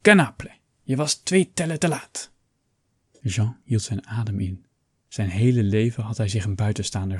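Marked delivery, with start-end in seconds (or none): 0.0-2.3 higher, loud call of the name; king calling out the late count, high and loud. A narrator's reading. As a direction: call the count out sharply across the stage. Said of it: "riep hij echter".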